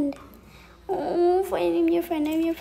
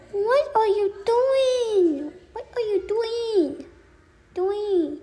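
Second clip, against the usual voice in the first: high, loud, slow scolding question; exasperated; 6 semitones higher, 4 dB louder, slower than usual. Real, not acted. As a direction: scold the bird, drawn out. Scolding the biting bird.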